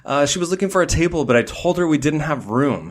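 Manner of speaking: high, lightly voiced manager; a light take on the flustered manager; quoting the manager. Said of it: "the manager runs over and he's like".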